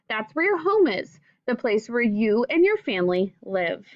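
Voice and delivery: clear, gentle read-aloud to a class; reading to children. Acted. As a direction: read the book aloud to young pupils, patiently. Teacher reads picture book to class.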